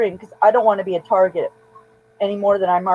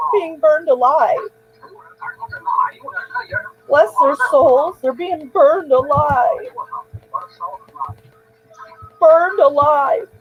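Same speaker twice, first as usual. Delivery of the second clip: very emotional; 5 semitones higher than usual. Real, not acted. Vlogger reacting to a video she finds disturbing, emotional and higher. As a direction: voice lifted high with upset, lingering on each horror. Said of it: "I'm very emotional".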